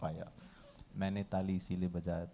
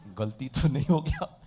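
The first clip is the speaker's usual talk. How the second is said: imitating a worried hand-raiser, louder at the end; mock doubtful participant; 6 dB louder than usual. Participant unsure whether raising a hand was a mistake, mock worry. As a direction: play someone suddenly doubting themselves. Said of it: "बोला".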